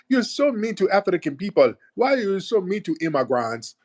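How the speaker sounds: high-pitched mimicry of complaining callers; mock complaining caller. Host mimicking callers who accuse him of meanness, mock complaint. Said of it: "some of these guys call up".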